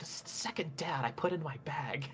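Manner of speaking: very quiet muttering under the breath. Voicing a character putting a body in a bag: muttering to himself. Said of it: "mutters to himself".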